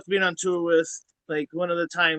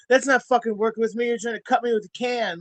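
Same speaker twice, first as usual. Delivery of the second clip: higher and louder, furious pushback; retold heated reply; 7 semitones higher, 5 dB louder than usual. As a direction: tell him off in the retelling. Retold shouting back at him.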